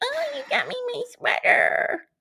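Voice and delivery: put-on very high, cutesy baby-talk voice. Retelling how a contestant talks to her husband: imitating Emily's baby talk. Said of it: "She does baby talk".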